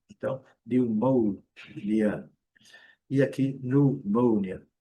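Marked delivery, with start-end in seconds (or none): 0.6-2.3 slow "pneumonia" with an OU glide, niu-MÔU-nia; U acrescentado. Shown as a demonstration. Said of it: "vamos acrescentar o U". 3.5-4.7 "pneumonia" as nu-MÔU-nia, slow; variante mínima. Shown as a demonstration. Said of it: "Diferença mínima".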